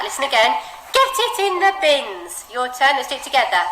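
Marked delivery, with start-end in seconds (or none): 0.9-2.5 bossy teacher voice giving an order. Shown as a demonstration. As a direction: boss them, tell them firmly. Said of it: "Like that".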